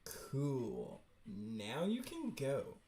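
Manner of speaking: slow, drawn-out douchey cool-guy line. Acted. Voicing a comic character's brush-off, douchey. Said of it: "Nope, that was douchey".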